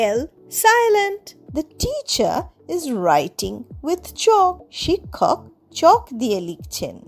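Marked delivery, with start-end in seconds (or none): 1.6-4.5 slow, clear example sentence. Shown as a demonstration. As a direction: read it out slowly for learners. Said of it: "slow teaching example". (ধীরে ধীরে উদাহরণ বাক্য)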